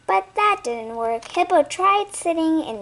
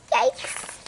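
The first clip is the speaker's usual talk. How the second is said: whispered yikes; 4 dB quieter than usual. A narrator's reading. Near miss with treetop.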